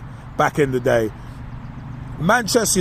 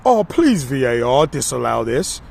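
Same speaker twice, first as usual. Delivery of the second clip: mock begging commentator; 4 semitones lower than usual. Retelling Martin Tyler's commentary, a mocking beg that fades out. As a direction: ham up a commentator begging the referee. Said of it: "he was kind of almost begging".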